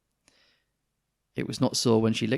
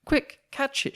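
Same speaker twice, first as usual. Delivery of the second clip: high, loud urgent cry; loud, high panicked shout; 5 dB louder than usual. Acted. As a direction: call out to grab the cat. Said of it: "shouted the nurse".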